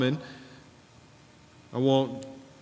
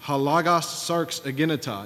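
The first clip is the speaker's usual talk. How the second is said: imitated professor's Greek; 3 semitones higher than usual. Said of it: "he would say it in Greek".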